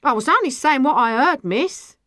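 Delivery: slightly flustered excuse; flustered woman. A narrator's reading. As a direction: protest your innocence. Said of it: "Her face was red and frightened".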